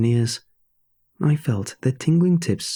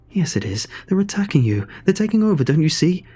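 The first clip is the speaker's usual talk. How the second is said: alarmed plea climbing higher; urgent inner voice; 6 semitones higher than usual. Acted. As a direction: insist on the danger, building in urgency. Frightened inner voice argues back, urgent.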